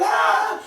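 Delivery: high-pitched imitated mom's scream; mock scream. Mom discovering the bathroom theft, mock scream. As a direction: cry out high, without much extra volume. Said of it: "She started screaming".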